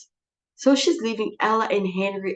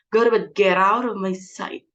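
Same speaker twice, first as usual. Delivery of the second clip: angry order; 3 dB louder than usual. Acted. Mother ordering daughter out.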